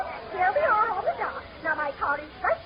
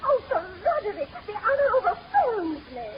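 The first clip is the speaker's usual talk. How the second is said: delighted gush; 2 semitones higher than usual. Acted. Society lady gushes at invitation.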